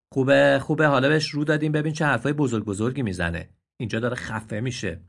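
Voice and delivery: sarcastic donkey. Acted. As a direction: sneer at his airs. Donkey sneers.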